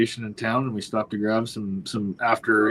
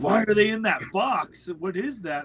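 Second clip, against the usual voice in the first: higher-pitched imitation of a puzzled woman; puzzled lady; 7 semitones higher than usual. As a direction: quote her baffled questions in a raised pitch. Puzzled lady questioning hunter's dog box.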